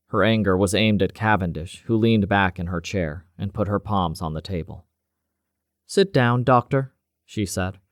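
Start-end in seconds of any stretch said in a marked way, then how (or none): 5.9-6.9 steady, commanding, unhurried; calm authority. Acted. Cavendish orders the doctor to sit, calm authority. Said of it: "her voice full of calm authority".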